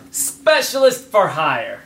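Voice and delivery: slow, mushy marbles in mouth. Acted. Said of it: "you have marbles in your mouth".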